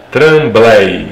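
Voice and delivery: TRAM-BLEI, loud, with Portuguese tapped R; Tremblay spelled out loudly in two Portuguese syllables; Portuguese reading. Shown as a demonstration. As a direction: read Tremblay out as written, in Portuguese. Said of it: "falando assim em português".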